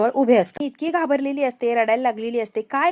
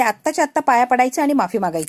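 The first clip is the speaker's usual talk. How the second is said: louder, scolding order to apologise; bossy demand; 5 dB louder than usual. Acted. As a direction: demand she bow and apologise. Shobha demands apology loudly. (मोठ्या आवाजात हुकूम देणे)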